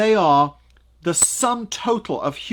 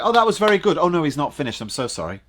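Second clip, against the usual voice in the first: audience member's reaction; 3 dB louder, faster than usual. Acted. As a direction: voice a mistaken listener backing down. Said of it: "Half the people listening think you've finished".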